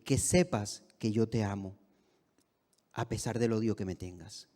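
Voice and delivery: low, softening reassurance; tender retold declaration. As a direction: quietly tell someone hostile they are loved. Retold loving words after embrace.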